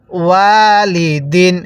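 slow "ওয়ালিদিন" with a long held ওয়া; drawn-out vowel. Shown as a demonstration. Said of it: "কিভাবে পড়ব তাহলে?".

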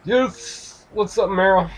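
high, delighted squeal of welcome; excited greeting. Real, not acted. Player greeting a favourite game character, excited and delighted. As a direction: greet them high-pitched and thrilled.

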